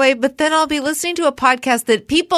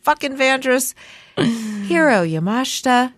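political sing-song voice. Pretend. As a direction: read the names like a politician at a podium. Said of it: "in my political sing-song voice".

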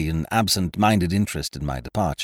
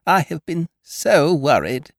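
high-pitched fretting hostess; worried lady; 9 semitones higher, 4 dB louder than usual. A narrator's reading. Hostess confiding in Ukridge about lost Leonard, fretful and high. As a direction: confide the worry in a high lady's voice.

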